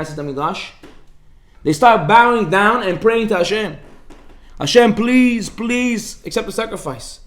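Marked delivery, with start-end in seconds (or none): 4.6-7.2 pleading prayer. Retold or imitated. Praying for the fire.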